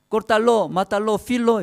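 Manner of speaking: high-pitched, punchy child playing butcher; niño jugando al carnicero. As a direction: mimic a kid barking butcher orders in play. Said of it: "su hijo también igual". (voz aguda de niño carnicero jugando)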